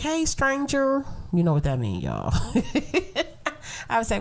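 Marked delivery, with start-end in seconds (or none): 0.0-1.0 flirty man's greeting. Retold or imitated. He was like.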